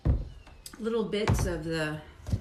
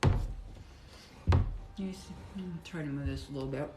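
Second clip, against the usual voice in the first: talking through a mouthful of food; words round a bite, still chewing; mouth full; 3 semitones lower than usual. Real, not acted. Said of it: "not talk with my mouth full".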